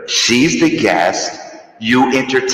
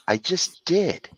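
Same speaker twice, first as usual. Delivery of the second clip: cave echo; 3 dB quieter than usual. Pretend. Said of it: "I'm in a cave".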